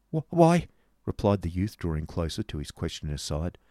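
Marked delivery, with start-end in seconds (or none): 0.1-0.7 put-on high, faltering boy; halting, agitated start; nervous stammer. A narrator's reading. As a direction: stutter it out high and urgent. Boy stammers, drawing closer.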